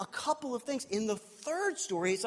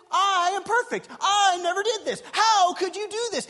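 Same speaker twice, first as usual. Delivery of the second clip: self-righteous brother; 11 semitones higher, 5 dB louder than usual. Retold or imitated. Proud brother voiced.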